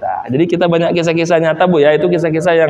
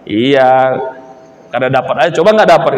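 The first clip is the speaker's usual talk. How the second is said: grumbling wife; 4 semitones lower than usual. Retold or imitated. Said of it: "mamanya ngomel juga".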